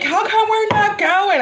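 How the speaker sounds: high-pitched imitation of a kid; mock child's protest; complaining child. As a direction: ask it high, like a puzzled little boy. Child questioning in retold exchange.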